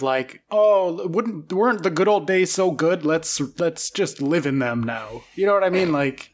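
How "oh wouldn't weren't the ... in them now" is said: boomer voice. Retold or imitated. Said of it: "extreme boomer energy".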